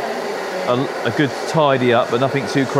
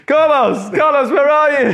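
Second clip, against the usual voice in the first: much higher, whiny mock wife; 6 dB louder than usual. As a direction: squeak it out as a put-on whiny wife. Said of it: "whiny wife voice".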